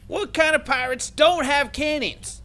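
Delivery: high, slow comic exclamation; indignant outburst. Acted. Pirate player baffled by a cannonless ship, indignant outburst. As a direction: cry it out in mock outrage.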